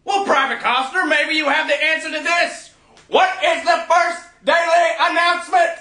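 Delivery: barking drill sergeant voice. Acted. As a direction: bark questions at the recruit. Plays a drill sergeant questioning a recruit.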